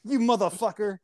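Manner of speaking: high-pitched what the fuck, then cursing; exasperated outburst. Retold or imitated. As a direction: blow up at the GPS in disbelief. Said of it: "I'm like".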